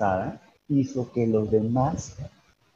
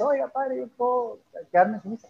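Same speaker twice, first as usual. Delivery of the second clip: retold youth's request; 8 semitones higher, 4 dB quieter than usual. Young man asking priest shyly.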